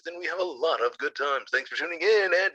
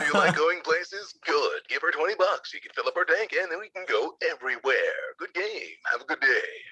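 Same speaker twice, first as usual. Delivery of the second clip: hype man ad. Acted. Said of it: "be my hype man".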